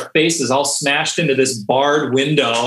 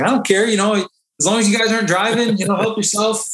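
higher, loose voice of a tipsy instructor; 6 semitones higher than usual. Retold or imitated. Instructor tells sailors to have fun, tipsy and higher. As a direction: lightly play the buzzed instructor waving it off.

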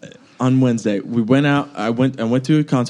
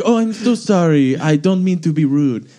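over-polite apology in a fake French accent. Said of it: "it was like my French accent now".

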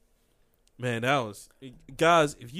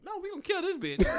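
Hawkeye quote; 13 semitones higher, faster than usual. Retold or imitated. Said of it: "Hawkeye was just like".

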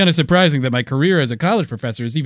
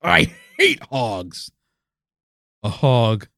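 dismayed adventurer; 6 semitones lower than usual. Acted. Adventurer parody dreading the hog.

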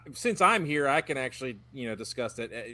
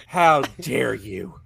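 slow, drawn-out mock indignation; mock outrage; 2 semitones lower, 4 dB louder, much slower than usual. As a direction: stretch it out, playfully offended.

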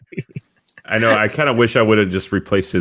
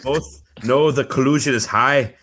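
British Bulldog voice; 3 semitones higher than usual. Acted. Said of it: "Said in British Bulldog voice".

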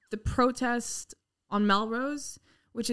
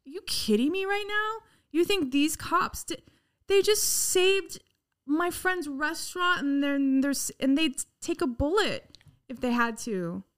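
retold angry retort; 4 semitones higher than usual. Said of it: "I looked at her and I said".

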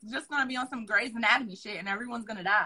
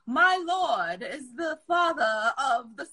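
mock Shakespearean; 3 semitones higher than usual. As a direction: ham up a medieval lord's line while laughing. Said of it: "that, like, Shakespearean".

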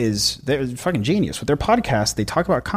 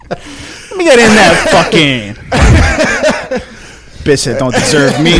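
slow, loud mock-arrogant Black accent; 4 semitones higher, 7 dB louder, slower than usual. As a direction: drag out a cocky Black accent, hammed up. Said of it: "arrogant black accent".

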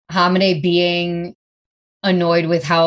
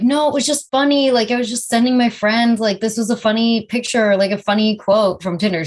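higher, fast mock excuse; defensive guy; 4 semitones higher, faster than usual. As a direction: rattle off the excuse, pitched up. Mimics guy's excuse.

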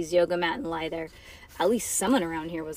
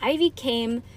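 ordinary delivery

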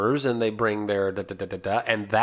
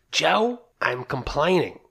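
mock complaining wife; 6 semitones higher, slower than usual. Husband mimicking his wife's complaint, mock nagging. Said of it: "I sound like your mother".

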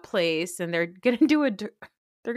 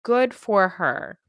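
slow, louder, drawn-out delivery; a light Lucille Bluth impression, slow and louder; Lucille Bluth quote; 4 dB louder, much slower than usual. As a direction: slowly savor the line like a dry sitcom matriarch. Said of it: "in the words of Lucille Bluth".

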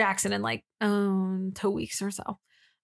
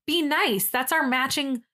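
mock-wounded protest; 4 semitones higher than usual. Friend objects to tossed hoodie, mock-wounded protest. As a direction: draw out a mildly pleading objection.

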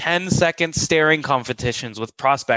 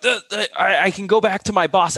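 higher, stammering nervous sales rep; flustered stammer; 6 semitones higher than usual. Retold or imitated. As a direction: stumble over the words like a panicking rep. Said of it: "they're freaking out, they're sweating".

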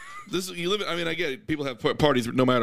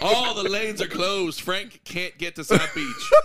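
radio DJ voice; 4 semitones higher, slower than usual. Pretend. Mock radio traffic report.

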